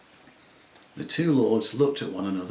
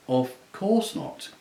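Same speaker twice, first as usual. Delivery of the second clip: slow, offended protest; a bear insulted at the very idea; shocked; 4 semitones higher, slower than usual. Acted. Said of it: "in a very shocked voice".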